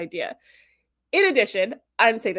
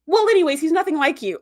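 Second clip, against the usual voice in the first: evasive Doctor; 6 semitones higher, 4 dB louder than usual. Retold or imitated. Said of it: "he goes".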